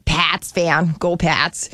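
Boston accent. Shown as a demonstration. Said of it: "that's my Boston accent".

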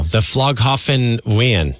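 "Flughafen Wien" sounded out slowly, unsurely in an American way; botched German pronunciation. Shown as a demonstration. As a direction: stumble slowly through "Flughafen Wien" like a non-German speaker. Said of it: "that's definitely not how you say it".

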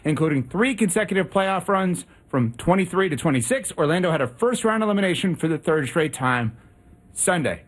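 breathless, labored reading after sprinting; out of breath. Real, not acted. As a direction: read it while still catching your breath. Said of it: "so out of breath".

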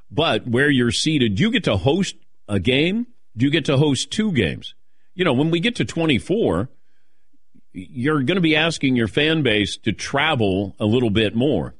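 ordinary talk, nothing marked

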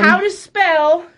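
slow and enunciated. Shown as a demonstration. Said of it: "More enunciation".

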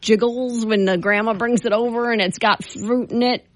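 lightly voiced little old lady; a hint of a grandma reminiscing. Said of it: "And I'm talking like an old lady".

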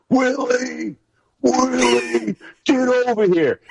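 high mock coach yell; imitating coach screaming. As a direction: call him over from the sideline, high. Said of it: "I can hear B C screaming".

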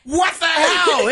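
high, slow sarcastic disbelief; mock astonishment. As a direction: ham up the shocked discovery. Mock shock at obvious tip.

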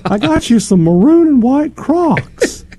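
high, slow hammed-up Australian accent; mock Australian accent. Dad pretends the university president brings Crocs, in a mock Australian accent. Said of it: "in that voice it is".

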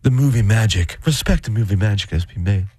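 lightly imitated star, low and measured; a hint of hushed reverence; playful take on a solemn movie-intro voice; Nicole Kidman. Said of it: "So you, she's like".

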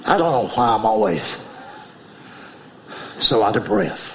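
lightly voiced heavy aunt, low; a hint of a breathless old aunt; big aunt voice. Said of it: "she would talk like this".

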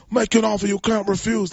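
a hint of the Godfather; Godfather impression. Host repeats his Godfather line for co-host, lightly voiced. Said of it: "That's my Godfather".

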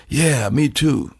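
slow, laid-back imitation of a rocker; imitating a rock musician. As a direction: lightly mimic a cool old bluesman, slowly. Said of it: "that's the way he talks".

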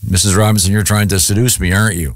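low, dry movie-line delivery; a hint of Dustin Hoffman's nervous line; quoting The Graduate. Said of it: "the famous old movie, The Graduate".

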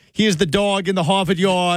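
put-on Boston accent. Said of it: "typed out in Boston accent".

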